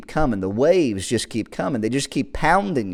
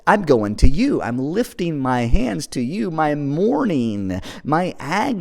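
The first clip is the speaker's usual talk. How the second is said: lifted, higher-pitched pleading as the praying psalmist; psalmist's plea to God; 4 semitones higher than usual. Acted. Preacher voices the psalmist reaching out to God, pleading. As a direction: cry out upward to God, pitch climbing. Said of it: "he's stretching out his hands to God".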